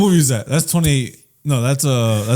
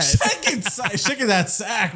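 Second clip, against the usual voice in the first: laughing; 4 semitones higher, 5 dB quieter, slower than usual. Real, not acted. Laughing pun.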